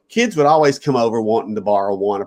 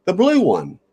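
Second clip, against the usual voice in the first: eager offer; 3 semitones higher, slower than usual. Retold or imitated. Speaker's own eager reply.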